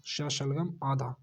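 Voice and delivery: श शलगम आधा said slowly, letter named clearly; slow spelling out. Shown as a demonstration. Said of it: "स आएगा". (श शलगम आधा धीरे-धीरे बोलकर)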